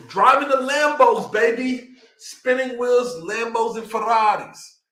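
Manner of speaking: hyped up. Real, not acted. Hyped about luxury cars.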